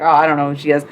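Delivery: clueless viewer. Retold or imitated. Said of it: "And you're like".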